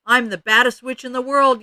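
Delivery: loud, high witch taunt; yelled boast. A narrator's reading. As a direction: yell it across the playground, pitched high. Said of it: "yelled Ramona".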